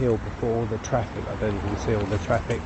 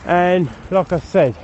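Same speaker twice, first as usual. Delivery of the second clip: panting between phrases; breathless after the hill; out of breath; 3 dB louder than usual. Real, not acted. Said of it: "be this much out of breath".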